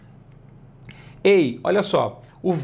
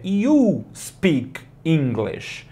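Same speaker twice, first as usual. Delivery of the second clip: You speak English said slowly and clearly; slow model sentence; much slower than usual. Shown as a demonstration. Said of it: "a frase traduzida é".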